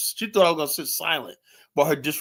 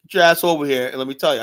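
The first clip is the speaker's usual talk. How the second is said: a firm, slightly louder command; firm demand; 5 dB louder, faster than usual. Retold or imitated. Customer ordering the waitress over, firm command. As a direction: order her over with authority. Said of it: "I said, just like that".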